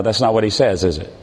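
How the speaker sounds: ordinary talk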